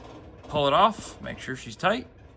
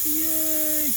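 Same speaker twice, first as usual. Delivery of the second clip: excited cheer. Real, not acted. Tool finally sucks fluid through.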